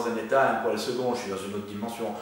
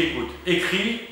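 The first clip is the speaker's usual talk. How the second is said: un peu plus ferme, pas méchant. Retold or imitated. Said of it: "un peu plus ferme, pas méchant, mais ferme".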